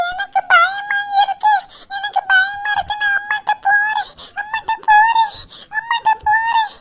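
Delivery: put-on high, whimpering child's plea; frightened child. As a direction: whine in fear like a small child. Scared child wanting mother.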